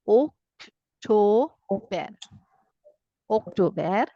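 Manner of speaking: very slow Oktober with a pure O; German Oktober. Shown as a demonstration. Teacher slowly modeling German October. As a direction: stretch Oktober, clear O. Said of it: "I read it as O is O sound".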